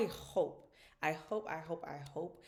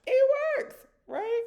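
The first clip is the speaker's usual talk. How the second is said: high and loud, triumphant; excited squeal; 14 dB louder, slower than usual. Real, not acted. Mom cheering that the trick works, high and loud. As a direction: squeal it like a proud win.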